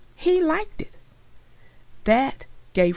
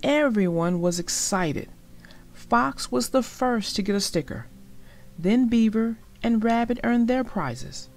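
lively storybook read-aloud with voiced characters; story narration. A narrator's reading. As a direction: read it like a bedtime picture book for kids. Reads a picture book aloud.

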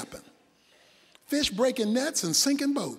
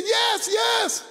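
eager shout; 8 semitones higher than usual. Acted. Man answering the voice eagerly.

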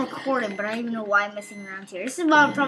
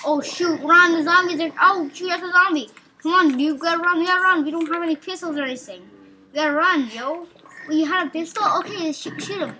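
high loud fake alarm; hammed-up scared yelling; pretend panic; 5 semitones higher, 4 dB louder than usual. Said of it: "I'm pretending right now".

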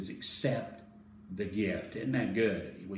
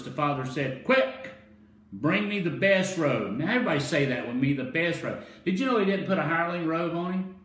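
punchy, raised preacher delivery; energetic preaching; 6 semitones higher, 3 dB louder than usual. Real, not acted. Preacher urging congregation to repeat the best robe, energetic preaching. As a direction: drive the story home to the crowd. Preacher retells parable with force.

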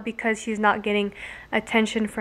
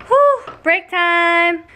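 relieved sigh; 6 semitones higher, 4 dB louder, much slower than usual. Real, not acted. Mom announcing a break.

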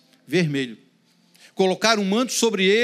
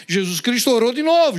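usual speaking voice

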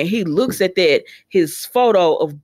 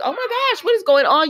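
mock surprise; 10 semitones higher than usual. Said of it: "Taylor comes in and she's like".

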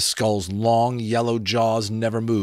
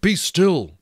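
loud, fierce, quick command; swift fierce voice; 11 semitones higher, 7 dB louder than usual. A narrator's reading. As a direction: snap it out to silence her. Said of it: "he said in a swift, fierce voice".

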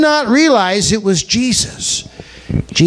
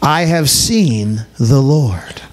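reverent echo; 6 semitones lower, slower than usual. Acted. Repeated slow, reverent echo.

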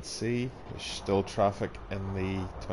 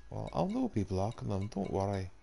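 mock Scottish; 2 semitones higher than usual. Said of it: "I'm not Scottish, by the way".

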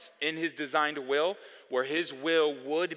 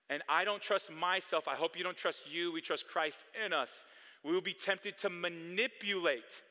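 ordinary delivery

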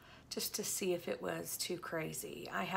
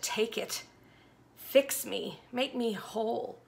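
pleading cry; 4 semitones higher, 5 dB louder, slower than usual. Acted. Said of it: "I held it up to God and I said".

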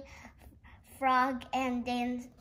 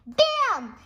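high, loud punchy exclamation; loud bam; 10 semitones higher, 7 dB louder than usual. Pretend. Kid booming the book's big moment. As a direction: hit it like a big reveal.

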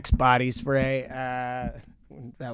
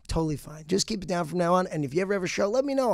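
higher, lightly imitated woman's voice; friendly woman neighbor; 5 semitones higher, faster than usual. Woman neighbor forgiving the comedian upstairs, lightly imitated friendly voice. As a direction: let him off as a friendly neighbor.

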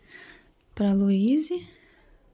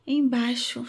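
ordinary talk, nothing marked

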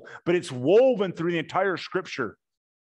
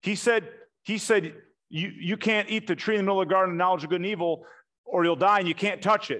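higher, fast, eager chatter; a light mock Eve voice; Eve's eager reply; 4 semitones higher than usual. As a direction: rattle off the rules like an eager child. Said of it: "And Eve's like".

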